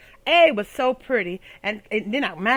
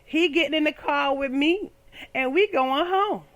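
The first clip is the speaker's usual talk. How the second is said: excited; 4 semitones higher than usual. Retold or imitated. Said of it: "I was like".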